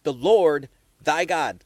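"Lord" hit loud and drawn out; stress on capitals. Shown as a demonstration. Pointing listeners to the capitals, stressed "Lord". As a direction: punch "Lord", then set "thy God" apart. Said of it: "Capitals. Look at the capitals".

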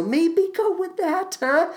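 high slow sultry tease; a drawn-out high sultry tease; kinky voice. Shown as a demonstration. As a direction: purr it out playfully. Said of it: "I just did".

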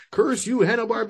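hammed-up cartoon villain shaking a fist; sputtering foiled villain. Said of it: "shaking his fist of anger on top of the mountain".

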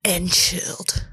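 slow eerie whisper; spooky whisper. Pretend.

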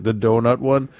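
imitating the father's Indian accent. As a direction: slip briefly into an Indian accent. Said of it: "did I just do the accent?".

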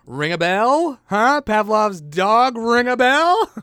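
loud, high, insistent pun push; drawn-out "Pavlov's dog", then "ring a bell?" shouted high. Acted.

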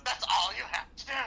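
mock yell. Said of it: "just yells it out".

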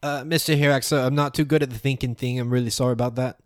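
meek and apologetic; Runzi apologizing. Acted.

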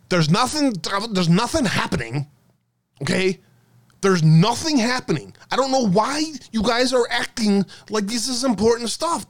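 lightly hammed-up nagging denial; mock Mike Rothschild. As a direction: play a whiny skeptic insisting nothing's happening. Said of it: "I do my best Mike Rothschild impression".

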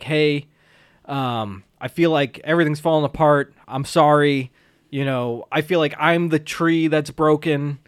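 low-pitched retold apology; understated mock despondency; mildly dejected. Acts out Daniel's dejected apology.

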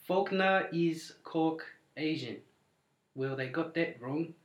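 put-on slow, deliberate New Zealand accent; deadpan Kiwi cop delivery. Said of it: "in a New Zealand accent".

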